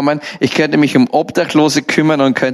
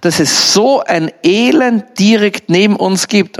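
higher, slowly stretched astonishment; moved amazement; 4 semitones higher, slower than usual. Retold or imitated. Business friend moved by the soup kitchen's misery, imitated amazement. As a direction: imitate someone struck by what they see. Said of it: "ist berührt und sagt".

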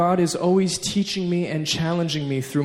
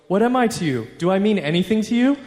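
higher, hammed-up hurt questioning; mock offended dad; 5 semitones higher, faster than usual. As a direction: play the slighted father, lightly. Dad acts offended at toddler.

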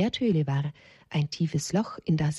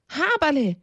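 mild cry of alarm; 8 semitones higher than usual. A narrator's reading. Mother warns her child of danger, restrained high cry. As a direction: call the name out high, an understated scream. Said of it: "schrie seine Mama".

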